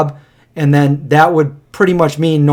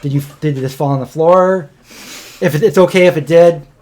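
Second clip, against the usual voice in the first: mock customer. Friend acting the restaurant customer, lightly voiced and chirpy. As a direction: play the chirpy customer praising dirty pizza.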